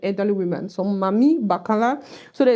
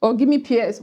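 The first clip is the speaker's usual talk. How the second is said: Cameroonian pidgin; 3 semitones higher than usual. Shown as a demonstration. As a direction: say it like a Cameroonian at the market. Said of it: "When the Cameroonian says".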